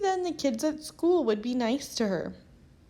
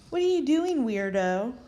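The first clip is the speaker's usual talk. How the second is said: mocking; 2 semitones higher, 4 dB louder than usual. Twins tease Violet.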